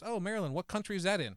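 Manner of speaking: imitating an innocently curious local; soft, lightly lifted friendly question; calm, nice. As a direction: ask it pleasantly, as the station attendant. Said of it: "very nice, very calmly says".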